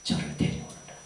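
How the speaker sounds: low, hushed command; quiet, deep voice of authority; Jesus. Retold or imitated. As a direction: give the order low and measured. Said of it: "제자들에게 명하셨어요".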